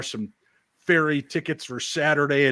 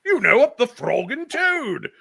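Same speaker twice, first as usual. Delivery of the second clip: high, slow mock British accent; hammed-up Brit, stretching the slang out; the speaker's imitation; 10 semitones higher, 4 dB louder, slower than usual. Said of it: "when he's talking like that".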